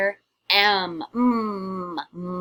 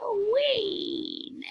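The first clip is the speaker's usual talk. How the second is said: excited; 13 semitones higher, much slower than usual. Acted. Counting down to Halloween.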